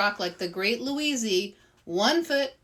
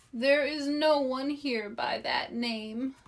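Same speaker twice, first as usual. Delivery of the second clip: sad voice; 4 semitones higher than usual. Acted. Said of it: "A sad voice answered".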